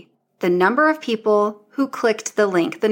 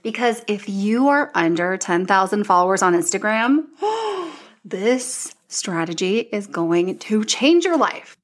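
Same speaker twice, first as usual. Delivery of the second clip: contained excitement. Real, not acted. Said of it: "maybe I'm being a little dramatic".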